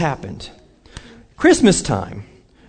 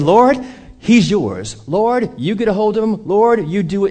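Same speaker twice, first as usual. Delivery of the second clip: tag; 4 semitones higher than usual. Retold or imitated. Acted prayer of surrender.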